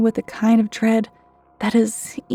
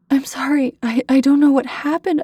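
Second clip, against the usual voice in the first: crying apology; 4 semitones higher than usual. A narrator's reading. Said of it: "I began to cry".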